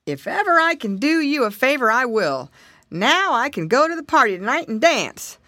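lightly voiced, hearty elephant; grateful elephant. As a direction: give thanks as the big creature. Elephant gratefully promises a favour.

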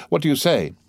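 high-pitched questioning cry; exclaiming. A narrator's reading. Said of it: "exclaimed Madame de Villefort".

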